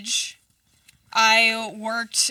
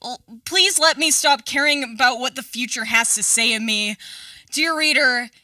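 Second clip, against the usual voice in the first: spoken word poem, louder refrains; poem reading; 4 dB louder than usual. Acted. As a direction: perform each "dear reader" like an open mic poet. Recites her poem Dear Reader.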